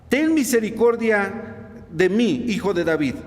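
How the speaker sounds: measured retelling of a beseeching cry; retold plea. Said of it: "Ahí está el clamor".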